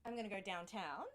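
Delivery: twangy Australian bogan accent; broad Aussie bogan with a rising end. Shown as a demonstration. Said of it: "say it with a Bogan accent".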